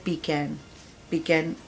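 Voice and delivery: British "पीकैन", "pee-can" with a flat short second vowel; British English "पीकैन"; British pronunciation. Shown as a demonstration. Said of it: "British कहते हैं".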